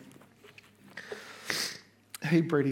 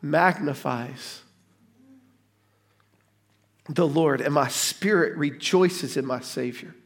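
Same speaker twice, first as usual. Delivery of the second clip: reverent quote. Acted. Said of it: "she says".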